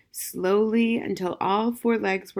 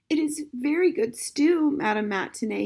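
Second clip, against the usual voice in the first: through tears; 8 semitones higher than usual. Acted. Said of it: "he managed to say".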